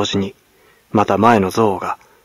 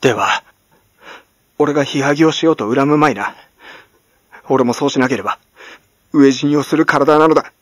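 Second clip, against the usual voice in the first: louder, higher, snapping at her; biting snarl; 5 semitones higher, 4 dB louder than usual. Acted. Servant grabbing the old woman's collar, biting snarl. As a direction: bite the words out at her. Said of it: "噛みつくようにこう言った。".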